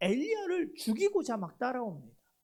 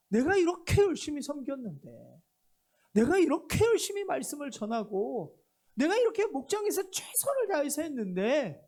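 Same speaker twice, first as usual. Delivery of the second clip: pastor's complaint. Acted. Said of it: "예를 들어서 목사입니다".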